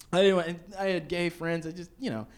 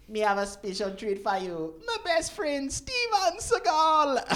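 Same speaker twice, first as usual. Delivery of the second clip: higher, slow build to a big reveal; hype introduction; 10 semitones higher, slower than usual. Retold or imitated. A dancehall artist introducing his famous friend, building hype announcement. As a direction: announce the guest like an MC. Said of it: "He goes".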